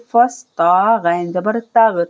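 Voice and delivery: फस with a whistling स, slowly; slow whistled फस; whistling sin. Shown as a demonstration. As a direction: let the स in फस whistle. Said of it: "सीन को पढ़ते वक्त सीटी की आवाज़ आएगी".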